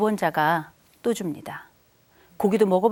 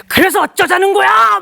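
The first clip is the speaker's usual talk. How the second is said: much higher and louder defiant snap; son's angry retort; 10 semitones higher, 9 dB louder than usual. Retold or imitated. Teen son shouting back at parent, imitating his angry retort. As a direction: shout it like a fed-up teenager. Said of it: "막 이러더라고요".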